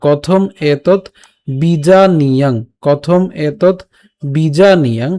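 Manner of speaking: কথম এতৎ বিজানীয়াং in separated words; broken-down recitation. Shown as a demonstration. Teacher models the split verse, measured word-by-word recitation. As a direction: set each word apart, ending বিজানীয়াং on ng. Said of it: "এভাবে উচ্চারণ করতে পারেন".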